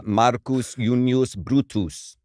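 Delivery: "Marcus Junius Brutus" said slowly, Junius as YOON-yus; measured Latin "Marcus Junius Brutus", Brutus as BROO-toos; classical Latin pronunciation. Shown as a demonstration. Second contestant answering the quiz, careful classical Latin pronunciation. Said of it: "do it in a classical Latin pronunciation".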